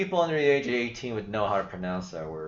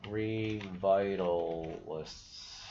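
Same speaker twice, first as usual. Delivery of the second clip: Revitalists said again slowly and softer, testing it; slow, quiet retry; 2 semitones lower, 5 dB quieter, much slower than usual. Shown as a demonstration. Trying the faction name again, slow and quiet. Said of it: "that sounds a little hard to say".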